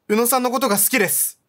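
lightly voiced sincere girl confessing; a hint of a shy heroine; heroine's confession. Heroine's confession read aloud.

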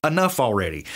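annoyed, fed-up sigh of a complaint; mock exasperation, hey Lord come on; exasperated Simon. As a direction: say it like a weary friend pushed too far. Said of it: "That is not the tone".

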